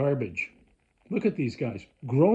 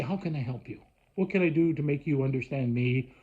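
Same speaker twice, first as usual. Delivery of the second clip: imitated helpfulness; 3 semitones lower than usual. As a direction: play a local kindly helping a visitor. Imagined locals kindly offering help.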